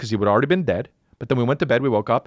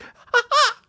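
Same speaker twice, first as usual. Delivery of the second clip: high, louder yelping dog noise; 4 dB louder than usual. Retold or imitated. The dog yelping again when petted. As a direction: yelp like a hurt dog. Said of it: "he's just like".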